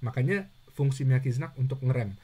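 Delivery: usual speaking voice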